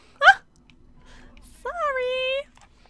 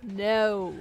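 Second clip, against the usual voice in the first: panicked no; 5 semitones higher than usual. Real, not acted. Panicked string of no.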